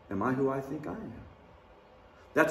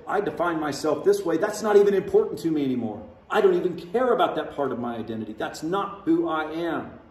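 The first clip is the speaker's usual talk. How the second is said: louder, fast and insistent, slowing on the last line; emphatic declaration; 3 semitones higher, 5 dB louder than usual. Retold or imitated. A believer shedding old identity, insistent. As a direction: declare it like you mean it. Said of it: "you may say".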